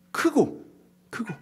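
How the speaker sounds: high wondering big; childlike awe. Acted. Preacher repeating how big dad seems to a child, high with wonder. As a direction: stretch it up like a small child.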